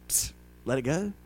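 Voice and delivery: soft, secretive psst, letting it slide; mock hushed brush-off. Pastor mimicking a soft hushed brush-off. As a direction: lightly mimic a lax pastor hushing it up.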